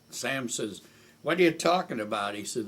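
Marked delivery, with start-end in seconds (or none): 1.2-2.4 quick, loud, high retort; retold angry yell; imitated raving. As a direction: fire back indignantly at a fast clip. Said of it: "he had a voice you could hear for miles away".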